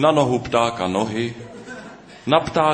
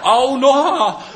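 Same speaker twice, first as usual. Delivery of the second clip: very high, loud yelp of pain; pain yell; 8 dB louder than usual. Acted. Bitten bird Noha yelling in pain, high loud yelp. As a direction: scream out as the snake bites. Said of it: "zařval bolestí Pták Noha".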